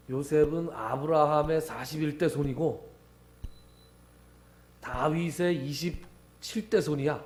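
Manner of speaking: slow, weighty stress on each 대, falling firmly; proud lineage boast. Retold or imitated. Jews introducing Jesus by lineage, a slow proud boast. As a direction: boast the generations to seize the upper hand. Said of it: "이렇게 기선을 탁 제압하고 가는 거죠".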